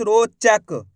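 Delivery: "रोचक" said slowly as ro, then chak; "रोचक" at half speed, each syllable distinct; slow, segmented. Shown as a demonstration. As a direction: pull apart the two halves of "रोचक". Teacher breaking the word for spelling.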